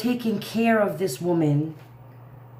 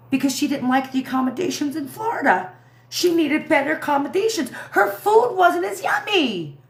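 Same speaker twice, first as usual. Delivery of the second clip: mock pity; 5 semitones higher than usual. Mocking the prisoner's pampered taste.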